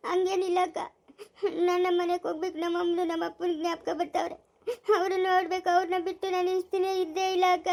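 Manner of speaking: tearful homesick confession. Acted. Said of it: "ನೀನ್ ಅಳ್ತಾ ಇದ್ರೆ". (ಅಳುತ್ತಾ ಅಪ್ಪ ಅಮ್ಮನ ನೆನಪು)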